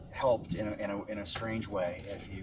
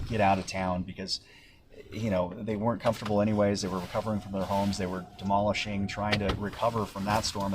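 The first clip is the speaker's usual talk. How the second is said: raised voice over the storm noise; shouting over wind; 4 dB louder than usual. Real, not acted. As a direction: project loudly over the wind. Reporter live in hurricane wind.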